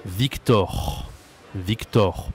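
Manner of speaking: Victor with open 'aw' in the last syllable; correct open O. Shown as a demonstration. Teacher modelling a French name, Victor with open O. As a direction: say Victor as 'veek-TAWR'. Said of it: "pas Victor".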